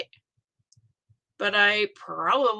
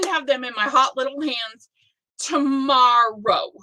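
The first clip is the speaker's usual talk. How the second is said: mock whine; 5 dB louder than usual. Longing for the package.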